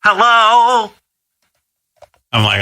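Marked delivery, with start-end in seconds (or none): 0.0-0.9 high, shaky hello like something's wrong; quivering mom voice. Retold or imitated. Mother picking up the phone, quivering and alarmed. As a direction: answer the phone as if disaster struck. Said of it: "her voice is shaking. It's quivering".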